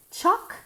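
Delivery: "chocolate" split into CHOC, pause, let; two separate syllables. Shown as a demonstration. Teacher drills English chocolate for Spanish speakers, two syllables. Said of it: "Dos sílabas".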